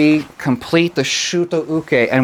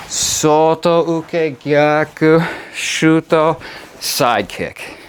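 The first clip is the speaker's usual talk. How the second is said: sharp martial arts commands; 3 semitones higher, much slower than usual. Shown as a demonstration. Karate teacher counting drill.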